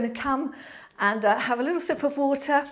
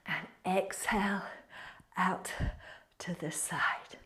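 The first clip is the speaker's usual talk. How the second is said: soft fading whisper, lower; whispered exhale cue; 4 semitones lower, 10 dB quieter than usual. Acted. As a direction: let the cue fade to a whisper. Final breathing cue.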